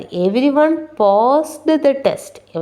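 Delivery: very slow, word by word English; slow dictation. Shown as a demonstration. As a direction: read it out slowly for the class. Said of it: "slow model sentence read". (വളരെ സാവധാനം വായന)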